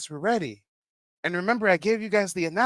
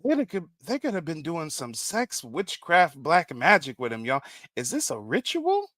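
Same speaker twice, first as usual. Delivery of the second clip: lightly voiced friend, hushed; a hint of a suspicious friend; half-whispered mock suspicion; mock African friend; 4 dB quieter than usual. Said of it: "his fellow African says".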